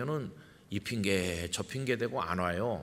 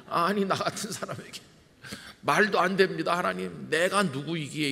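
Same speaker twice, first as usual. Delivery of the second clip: flustered Moses; 7 semitones higher, 3 dB louder than usual. Retold or imitated. Pastor acting Moses refusing God.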